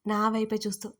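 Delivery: plain reading voice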